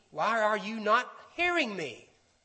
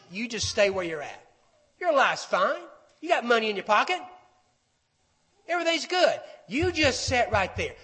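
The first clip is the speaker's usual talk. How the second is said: coaxing liar. Acted. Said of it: "the voice of the liar is saying".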